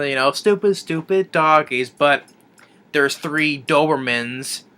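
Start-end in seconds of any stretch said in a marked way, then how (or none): 0.3-1.9 slow, sing-song mock taunt. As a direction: tease the dogs slowly. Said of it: "they're all mocking them".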